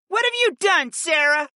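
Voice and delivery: very high, accusing hiss; hissed accusation. A narrator's reading. Fi blames her sister Sarah, hissing. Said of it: "Fi hissed".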